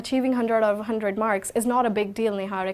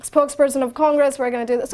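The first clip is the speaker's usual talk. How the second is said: lightly imitated heated news anchor; a hint of angry TV host; Arnab Goswami; 3 semitones higher, 4 dB louder than usual. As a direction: introduce the debate panel with punchy force. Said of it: "with the anger and expressions and everything".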